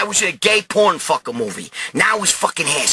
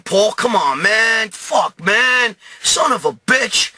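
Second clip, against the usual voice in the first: raised-pitch, aggrieved grumbling; exasperated complaint; 4 semitones higher, much slower than usual. Retold or imitated. Bloodied friend must shower again, complains to Paul in exasperation. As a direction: draw out the curse, fed up.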